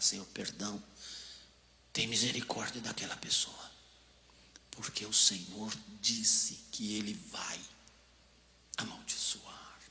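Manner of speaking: soft, breathy whisper, slowing down; hushed plea to God for the person who hurt him; whispered prayer. Acted. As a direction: pray under your breath for mercy. Quick prayer for forgiveness.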